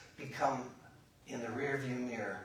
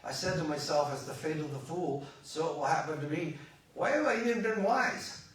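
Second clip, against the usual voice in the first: sarcastic; 2 semitones higher, 5 dB louder than usual. Acted. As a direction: quote it with rising sarcastic complaint. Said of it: "says it kind of sarcastically".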